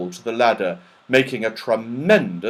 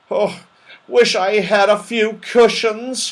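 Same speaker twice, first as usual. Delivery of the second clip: Moonface crying out; 9 semitones higher, 4 dB louder than usual. Acted. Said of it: "cried Moonface".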